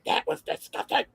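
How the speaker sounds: mock outraged mother; upset mother imitation. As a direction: act out a scandalized, sputtering mother. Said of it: "Vivian was very upset".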